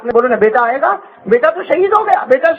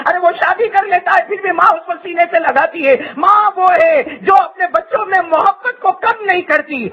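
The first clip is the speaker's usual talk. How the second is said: preaching shout; 5 semitones higher than usual. Real, not acted. Preacher rising to climax.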